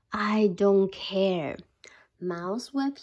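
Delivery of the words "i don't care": slow, lazy bear not caring; sleepy bear. Acted. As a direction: drag it out dismissively. Bear dismisses mouse.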